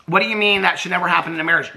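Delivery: fast, disbelieving echo of "that should never happen in a marriage"; incredulous. Real, not acted. Vlogger mocking Brittany's quote with fast disbelief. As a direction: throw the words back in disbelief.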